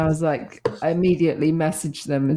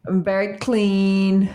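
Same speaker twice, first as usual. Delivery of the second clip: put-on American accent. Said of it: "Why do you sound American suddenly?".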